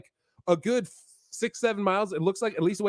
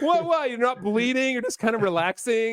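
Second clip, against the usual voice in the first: mock disbelief; 4 semitones higher than usual. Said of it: "It's like".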